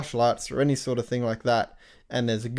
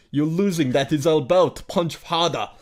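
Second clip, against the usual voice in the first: 1 mock Russian accent; 2 semitones higher than usual. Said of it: "doing that accent".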